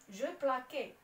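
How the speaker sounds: جو بلاكي with a hard k, as written without cedilla; wrong reading. Shown as a demonstration. Teacher shows students the mistaken hard k reading. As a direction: read جو بلاكي as zhe pla-KEE, a hard k sound. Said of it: "حتى الان اش كتبان لكم؟".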